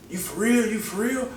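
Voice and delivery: high-pitched, incredulous question; squeaky disbelief, rising; disbelieving. Retold or imitated. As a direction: imitate a startled friend, voice way up. Homie's disbelieving question, retold.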